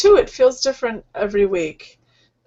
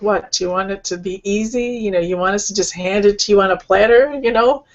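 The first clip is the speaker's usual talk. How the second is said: teasing disbelief, rising at the end; gently mock them for wanting it easy; affectionate sarcasm, lightly put on; lovingly sarcastic; faster than usual. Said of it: "lovingly, but kind of sarcastic".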